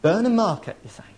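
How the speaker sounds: lightly played country local's accent; rural accent. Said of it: "put on my best rural accent".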